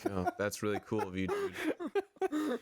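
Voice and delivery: sarcastic thanks through a laugh; chuckling fake gratitude; laughing sarcasm. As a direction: laugh it out, mock grateful. Sarcastic thanks to unhelpful friend.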